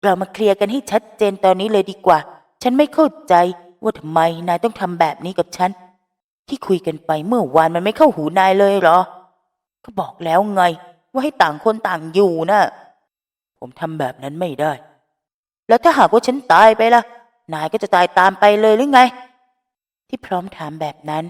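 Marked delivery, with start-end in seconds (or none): 0.0-12.6 raised, exasperated telling-off; loud scolding. Acted. Phrom loudly lectures Finneas to stay away. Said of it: "น้ำเสียงที่โวยวายของพร้อม". 15.7-19.0 high, loud exasperated cry; loud challenge. Acted. Phrom shouts at Finneas about dying. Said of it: "น้ำเสียงที่โวยวายของพร้อม".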